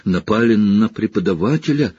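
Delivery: put-on girl repeating it in horror; horrified. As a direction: sink into dread. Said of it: "в ужасе шептала Гермиона".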